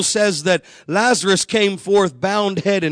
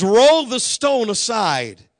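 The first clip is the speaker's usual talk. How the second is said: commanding; 3 semitones higher, slower than usual. Retold or imitated. Jesus commands at tomb.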